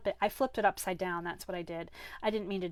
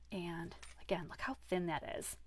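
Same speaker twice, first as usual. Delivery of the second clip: whispered aside; 2 semitones lower, 6 dB quieter than usual. Real, not acted. Aside before pointing at detail.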